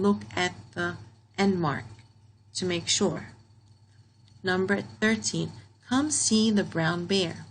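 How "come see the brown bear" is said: slow, even read of the sentence; calm slow model reading. Shown as a demonstration. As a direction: read it out slowly, word by word. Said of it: "Here it's telling you to come see the bear".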